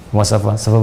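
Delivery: low mock-French greeting; French accent. Shown as a demonstration. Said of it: "Kayak orang Perancis". (logat Prancis tiruan bernada rendah)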